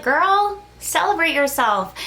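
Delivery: playful bestie hype; sassy spirit guide. Retold or imitated. Her own guides hyping her up, sassy and high. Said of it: "they're just like".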